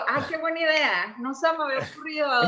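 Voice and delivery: lightly sarcastic, as if struck by the idea; mock gratitude. Guest answers useless advice to cheer up, mildly sarcastic. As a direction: feign delight at useless advice.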